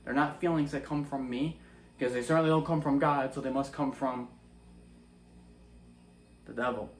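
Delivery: sincere prayer. Shown as a demonstration. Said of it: "You should say".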